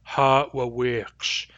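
"Ha wa wiqsh" slow with a long last vowel; long, short, long. Shown as a demonstration. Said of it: "long, short, long".

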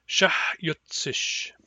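"shahyutsish" spelled out very slowly; "shahyutsish" stretched slow for learners; slow model word. Shown as a demonstration. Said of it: "you will pronounce them with me".

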